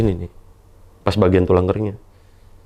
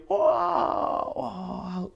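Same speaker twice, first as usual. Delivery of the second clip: mock scream of pain; 10 semitones higher, 7 dB quieter than usual. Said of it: "kan teriak ya jadinya".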